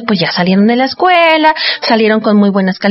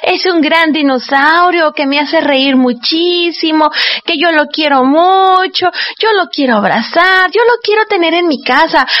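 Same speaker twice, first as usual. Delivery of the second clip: imitating an eager child; 6 semitones higher than usual. Host imitating children begging mamá for a dinosaur. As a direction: whine like a kid begging for a pet. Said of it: "ustedes, amiguitos, dicen".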